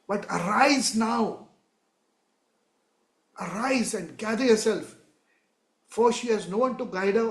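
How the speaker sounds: declaiming scripture. Acted. Preacher voicing God speaking to Zion, solemn declaiming. Reads God's words.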